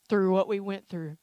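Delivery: loud push on the opening word; forceful. Real, not acted. Preacher recalling last year's hardship, forceful. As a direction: drive it out with weight.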